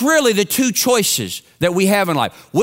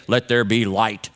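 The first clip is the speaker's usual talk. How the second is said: a lightly lowered, slow God voice; best God voice; 11 semitones lower than usual. Retold or imitated. A boy playing God for the class, in a slow, lightly lowered God voice. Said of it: "in his best God voice".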